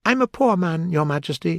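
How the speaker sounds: high, anxious Hatter; nervous Hatter voice. Acted. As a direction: plead nervously. The Hatter pleading.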